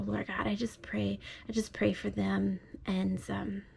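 soft, hushed prayer, drifting into whispers; hushed bedtime prayer. Real, not acted. Father prays over child at bedtime.

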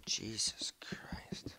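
slow whispered exhale of the words; slow relieved whisper; whispered relief. Real, not acted. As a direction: breathe it out slowly. Relief after scare.

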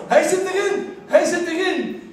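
high excited shout of joy; goal cheer. Retold or imitated. Fan cheering the late winning goal, ecstatic shout. Goal scored, crowd erupts.

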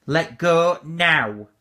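slow, forceful banishing order; slow loud command. Real, not acted. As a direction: hammer out each word slowly.

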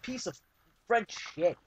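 loud, high furious yell at the killer; raging shout. Real, not acted. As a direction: blow up at the guy who just killed you. Raging at enemy player.

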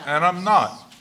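laughing out the punchline, high and loud. Real, not acted. Speaker laughing as he ends his own joke. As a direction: burst out laughing at the end.

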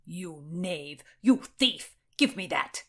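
a burst of mild outrage; angry accusation. Acted. Nephew demanding the jewel from a thief, angry. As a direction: accuse him, peaking loud on the second charge.

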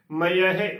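ਮਯਹਿ as "ma-ya-he"; ਮਯਹਿ with a clear y and a final he; shown pronunciation. Shown as a demonstration. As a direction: sound all three syllables of ਮਯਹਿ. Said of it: "ਉਚਾਰਨ ਕਰਨਾ ਹੈ".

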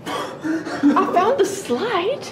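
slow, giggling through the words; laughing. Real, not acted. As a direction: laugh it out slowly. Finding the slide, laughing.

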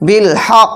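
slow বিল হক, doubled q held then bounced; teacher's slow demo of বিল হক with strong echo; very strong qalqalah. Shown as a demonstration. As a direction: hold the stop in হক, then release it hard. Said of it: "কলকলাটা খুব শক্তিশালী হবে".

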